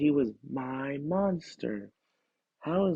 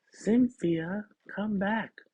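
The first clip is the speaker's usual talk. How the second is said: put-on stamping little girl who wants her monster; child's demand; 7 semitones higher, slower than usual. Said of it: "Emma demanded".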